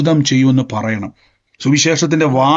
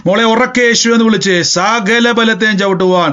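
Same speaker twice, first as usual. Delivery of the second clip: deliverance prayer; 3 semitones higher than usual. Acted. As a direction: rebuke the spirit with rising force.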